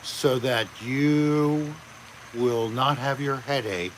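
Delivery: flat monotone, slowed down. Shown as a demonstration. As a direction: drone it in one monotone. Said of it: "in a monotone voice".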